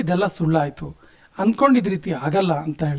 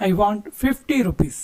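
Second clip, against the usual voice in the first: slow repeat; much slower than usual. Shown as a demonstration. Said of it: "ಬೇಕು ಅಂತ ಕೇಳೋದಕ್ಕೆ".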